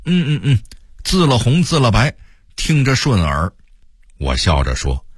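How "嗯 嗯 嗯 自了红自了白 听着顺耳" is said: excited approval. A narrator's reading. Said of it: "用激动的口吻说这番话".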